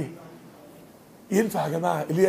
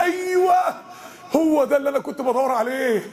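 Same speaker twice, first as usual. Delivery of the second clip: joyful yes; 4 semitones higher than usual. Acted. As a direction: shout it like finding what you sought. Imagined joyful discovery. (صيحة فرح مفاجئة)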